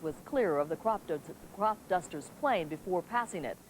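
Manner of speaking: measured TV anchor delivery; news read. Acted. Anchor reporting the evening news to viewers, crisp broadcast read.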